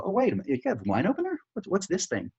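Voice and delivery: high, eager curious buyer; excited customer. Retold or imitated. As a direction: sound delighted at a find. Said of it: "they'll go".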